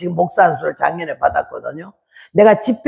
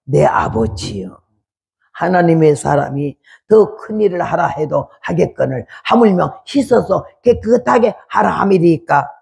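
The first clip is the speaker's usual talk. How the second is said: humble servants' plea; 4 semitones lower than usual. Retold or imitated. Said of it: "그래도".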